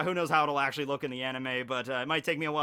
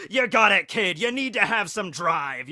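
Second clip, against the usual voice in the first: cheering shout; 3 semitones higher, 7 dB louder than usual. Acted. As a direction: pump him up like a gym coach. Yelling encouragement at Kid.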